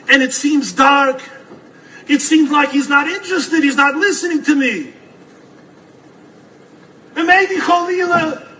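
high, slow, rising sermon voice; preaching. Acted. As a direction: build the drama of the hopeless moment. Preaches at full force.

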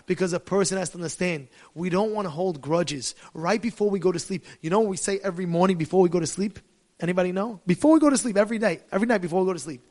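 usual speaking voice

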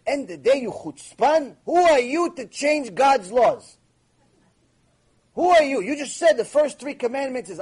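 a rabbi's furious retort in a retold debate; indignant rebuke. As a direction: scold him for changing God's law.

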